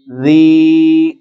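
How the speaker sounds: زی with a soft zaal sound. Shown as a demonstration. Teacher models زی softly for the class. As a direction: say زی lightly, soft. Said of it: "زال نرم پڑا جاتا ہے".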